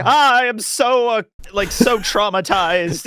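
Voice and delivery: slow, put-on distress; milk it as a pretend victim; feigned trauma. Scammer giving onlookers the impression of trauma, hammed-up distress. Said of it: "I'm just giving the impression that".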